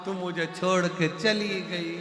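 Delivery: sing-song mock lament for a dead mother-in-law; hammed-up funeral wailing. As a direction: wail it in a half-sung mourning tune. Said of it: "तो बहू रो रही थी".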